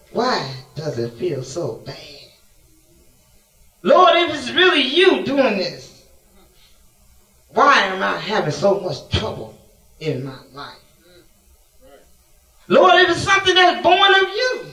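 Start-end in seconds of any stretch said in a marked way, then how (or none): 3.8-14.6 pleading cry to God. Acted. Preacher crying out to God.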